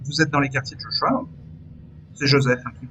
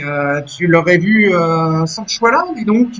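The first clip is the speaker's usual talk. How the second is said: jealous; slower than usual. Acted. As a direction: needle them out of jealousy. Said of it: "tu sens de la jalousie, hein, dans sa voix".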